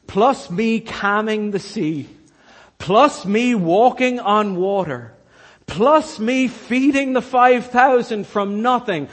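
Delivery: slow build to a loud, high climax; rising to a loud, slow, high-pitched call to the disciples; building preacher cry. Acted. Jesus voiced, building to climax.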